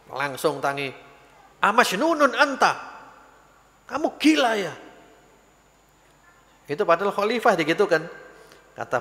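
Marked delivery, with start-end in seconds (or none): 1.6-4.8 raised angry voice of a man woken up; angry shout. Retold or imitated. Sleeping man yelling at the stranger who tripped on him, angry. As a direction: snap at him like you were just kicked awake. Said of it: "Ngamuk wonge".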